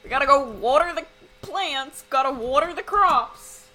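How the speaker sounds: lightly voiced country grandpa; a hint of rural old-timer. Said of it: "an old country grandpa would say".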